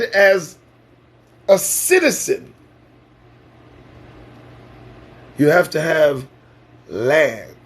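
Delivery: deliberate, broken up with long pauses; measured delivery, letting each phrase land; saying it slowly. Real, not acted. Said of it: "I'll say it slow".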